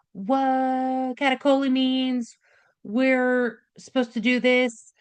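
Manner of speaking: drawn-out, slow mock alert; lightly voiced kidneys calling to the brain; acted body alarm. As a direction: stretch the first word out slowly.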